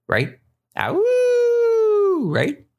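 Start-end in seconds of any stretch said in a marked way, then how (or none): 0.8-2.3 long, very high imitated howl; wolf howl. Shown as a demonstration. Teacher showing students the wolf, high drawn-out howl.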